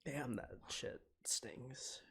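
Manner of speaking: slow, hushed whisper. Real, not acted. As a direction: breathe it out under your breath. Streamer moved by sad scene.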